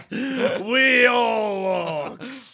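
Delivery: high, hugely drawn-out orc shout; Italian-sounding orc. Acted. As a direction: holler it slowly as a mock Italian orc. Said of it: "Why are orcs Italian".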